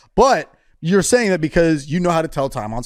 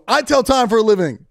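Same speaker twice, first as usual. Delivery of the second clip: higher-pitched imitation of a boast; teasing, pitched-up mimicry; mocking quote; 6 semitones higher than usual. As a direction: parrot it back in mock indignation. Co-host mocks the boast.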